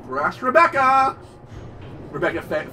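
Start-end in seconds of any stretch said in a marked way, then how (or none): 0.0-1.2 louder, roaring villain taunt; brutish villain. Retold or imitated. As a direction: roar like a cyborg brute.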